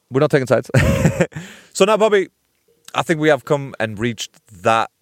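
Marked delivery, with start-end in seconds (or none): 2.9-4.9 mock ceremonial. Ceremoniously introducing the show's regular segment.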